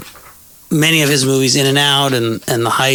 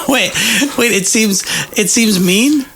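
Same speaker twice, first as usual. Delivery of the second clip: surprised; 7 semitones higher than usual. Real, not acted. Host calls his interview mean.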